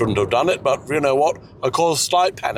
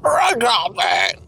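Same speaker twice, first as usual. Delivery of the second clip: high, slow stab at French "Regardez"; drawn-out, high-pitched attempt at French; failed French accent; 12 semitones higher, much slower than usual. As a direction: try and fail to make "Regardez" round. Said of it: "That doesn't work".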